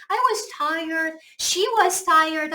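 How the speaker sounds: slow example with was; slow normal-tense example. Shown as a demonstration. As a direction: read was sentences slowly. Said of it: "하고 was 쓰지". (was 예문을 천천히)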